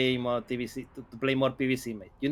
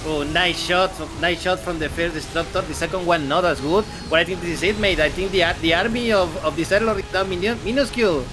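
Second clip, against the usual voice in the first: louder, brisk hype call; excited commentary; 3 semitones higher, 4 dB louder than usual. Real, not acted. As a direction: keep the energy up through the fight. Co-caster hyping the fight.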